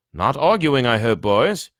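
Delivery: high, loud squeak of a small professor; squeaky. A narrator's reading. Flitwick squeaking at the arguing boys. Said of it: "he squeaked".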